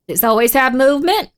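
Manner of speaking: insistent repeated question with a rising end; emphatic question. Real, not acted. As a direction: press the question, lifting "movement" at the end. Repeats her own question more forcefully.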